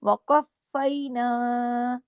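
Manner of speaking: वक़फ़ैना with a heavy क़ joined tightly to फ़; वक़फ़ैना with a thick क़ and firm join; heavy qaf. Shown as a demonstration. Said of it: "क़ाफ़ मोटा और फा के साथ सख्ती से जोड़ना है".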